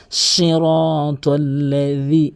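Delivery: "সিরাতাল্লাযী" slow, ending in a soft dh; correct soft dhal. Shown as a demonstration. Teacher demonstrating the dhal, slow careful recitation. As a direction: draw out "সিরাতাল্লাযী" with tongue-tip dh. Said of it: "এবং জালের উচ্চারণ".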